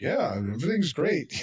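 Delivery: mildly mocking put-on positivity; understated phony cheer; fake cheerfulness. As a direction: lightly fake an all-is-well tone. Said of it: "fake, like".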